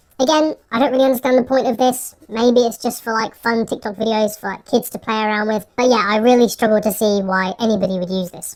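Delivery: voice run through a high pitch-up changer. Testing a voice changer's high-pitched mode while talking about it, high-pitched voice changer. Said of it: "So this should be a high-pitched voice".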